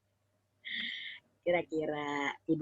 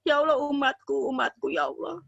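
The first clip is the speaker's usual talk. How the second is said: tender plea for his people; 5 semitones higher than usual. Acted. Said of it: "Nabi selalu bilang".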